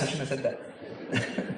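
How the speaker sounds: whispered, slow and laughing; a laughing half-whispered I shouldn't have; guilty whispered aside. Real, not acted. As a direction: drop to a sheepish whisper. Embarrassed aside after naming city.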